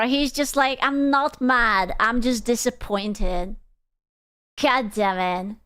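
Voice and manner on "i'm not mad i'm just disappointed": slow mock-disappointed quote; slow it down like a let-down parent, lightly acted; imitating weary disappointment. Viewer voicing the no longer angry host, imitating disappointment. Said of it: "he wasn't even angry anymore".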